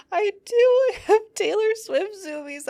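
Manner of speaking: high, giggly, laughing it out; words breaking into real laughter; half-laughing at her own zoomies. Real, not acted. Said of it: "I'm crying".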